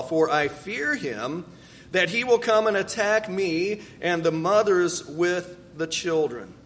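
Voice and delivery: earnest, measured reading of a prayer; scripture reading. Acted. Preacher reads Jacob's prayer to the congregation, earnest. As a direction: read it like a heartfelt prayer.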